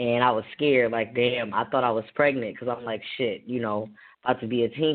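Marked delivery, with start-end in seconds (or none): none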